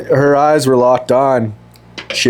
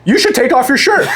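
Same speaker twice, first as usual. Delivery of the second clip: imitating the mother; 10 semitones higher than usual. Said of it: "for the next ten minutes".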